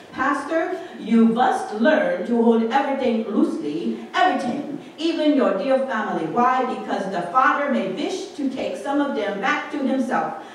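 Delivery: put-on elderly Dutch woman's accented counsel; earnest advice in a put-on Dutch accent; strong Dutch accent. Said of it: "In her strong Dutch, Dutch accent, she says".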